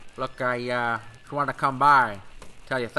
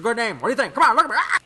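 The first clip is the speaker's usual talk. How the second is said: higher and louder, laughing through it; laughing coax; 9 semitones higher, 5 dB louder, faster than usual. Acted. Smuggler laughing, coaxing Frank.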